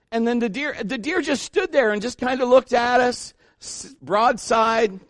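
normal talking voice

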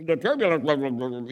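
lightly imitated pilot announcement; captain's announcement. Captain addressing passengers about turbulence, lightly mocked announcement. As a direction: garble it like a captain on the intercom. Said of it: "you know, the captain".

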